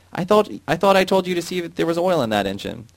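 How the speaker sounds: high, loud furious yell; angry shout. A narrator's reading. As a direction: rage at the worker. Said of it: "He ran to Jan and shouted".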